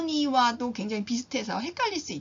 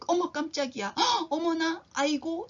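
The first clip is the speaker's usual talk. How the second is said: higher, gasping fright; startled gasp; 5 semitones higher than usual. Shown as a demonstration. Teacher demonstrating a frightened gasp of surprise. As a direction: gasp as if something just jumped out. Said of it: "이렇게 쓸 수 있는 말이지요".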